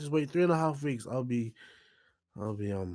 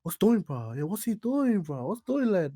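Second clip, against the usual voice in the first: mock Aussie accent; 2 semitones higher, 8 dB louder, slower than usual. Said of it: "Every word he's like".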